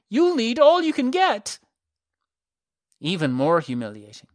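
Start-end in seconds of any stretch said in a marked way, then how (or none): 0.1-1.6 high, loud jeering taunt; mocking shout. A narrator's reading. Herco taunting the girls below, loud jeer. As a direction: taunt them from above. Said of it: "he kept shouting".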